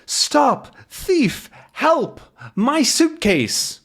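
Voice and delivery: slowed, stretched cry on my suitcase; yelling for help. Retold or imitated. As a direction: scream for help as your case is taken. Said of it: "somebody yells".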